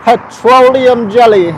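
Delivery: "Petroleum" stressed and high, pet-ROH-lee-um; careful pronunciation. Shown as a demonstration. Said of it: "I know it's petroleum".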